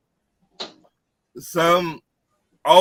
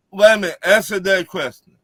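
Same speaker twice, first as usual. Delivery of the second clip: raised, insistent cut-in; loud interruption; 5 semitones higher, 5 dB louder, faster than usual. Real, not acted. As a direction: cut them off loudly. Demanding an answer in debate.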